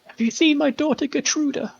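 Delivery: put-on high, pleading old woman's voice; high tearful mother pleading at the door; desperate grieving mother.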